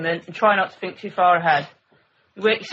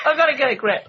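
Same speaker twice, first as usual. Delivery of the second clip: laughing; 4 semitones higher, faster than usual. Real, not acted. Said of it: "I'm crying".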